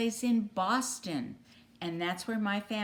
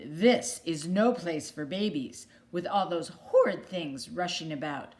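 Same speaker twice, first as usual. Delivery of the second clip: indignant duck; 4 dB louder than usual. Acted. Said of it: "when she got her breath".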